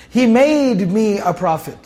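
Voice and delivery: "made" drawn out, slow line; stress on made. Shown as a demonstration. Teacher showing listeners the past tense, "made" stressed and stretched. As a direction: stretch the word "made" to mark it. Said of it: "That's past tense".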